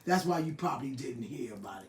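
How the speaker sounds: low, soft, laughing words; amused laughing aside. Real, not acted. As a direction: chuckle through the tease. Teasing Jill about age.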